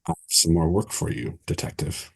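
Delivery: understated sultry offer, trailing into breath; lightly voiced sultry woman. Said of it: "a sultry female voice say".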